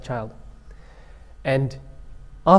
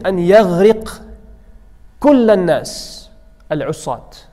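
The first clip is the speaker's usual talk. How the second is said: sea pleading with God; 5 semitones higher, 5 dB louder than usual. Acted. Sea pleads with Allah, voiced.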